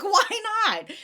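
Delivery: high, loud, laughing re-enactment; laughing, carefree. Retold or imitated. Vendor re-enacting her decision to make jam, laughing and carefree. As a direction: toss it out through a laugh, way up high.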